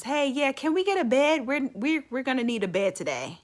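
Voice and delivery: calling out. Retold or imitated. Doctor calling out to the nurses for a bed, loud. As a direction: call across the ward to the nurses. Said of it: "yells out to the nurses".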